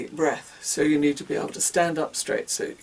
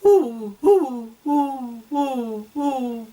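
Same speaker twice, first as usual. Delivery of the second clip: high hooted woos, easing off in force; light baby-bouncing woos, less push from the belly; woos without diaphragm; 9 semitones higher, 6 dB louder, much slower than usual. Shown as a demonstration. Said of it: "if you're not using your diaphragm".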